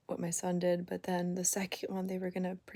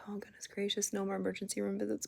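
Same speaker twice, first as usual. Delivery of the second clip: whispered groan of dismay; exasperated whisper; 7 dB quieter than usual. Retold or imitated. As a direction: breathe it out, fed up. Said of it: "And I'm like".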